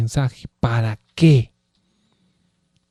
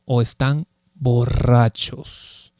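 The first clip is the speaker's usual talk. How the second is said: drawn out, very slow o están borrachos; 3 semitones lower, 3 dB quieter, much slower than usual. Shown as a demonstration. Preacher dwelling on the mockers' claim, slow and drawn out. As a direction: stretch every syllable of están borrachos. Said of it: "repeated quieter".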